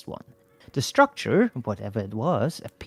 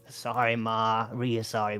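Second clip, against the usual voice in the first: sheepish apology; 2 semitones lower, 6 dB quieter than usual. A narrator's reading. Son apologizing to mother.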